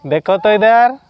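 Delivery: high, lifted call with rising ends. Real, not acted. Getting the baby to look over.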